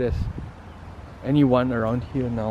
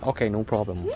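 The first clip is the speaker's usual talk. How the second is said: mock Chinese accent; 3 semitones lower, 5 dB quieter than usual. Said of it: "in a Chinese accent and go off".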